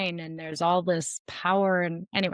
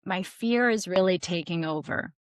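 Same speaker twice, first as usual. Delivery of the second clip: vulnerable request. Shown as a demonstration. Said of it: "you could come to someone and say".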